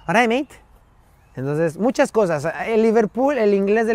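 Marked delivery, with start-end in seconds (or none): 0.1-0.6 Scouse greeting. Retold or imitated. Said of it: "Pero te está diciendo".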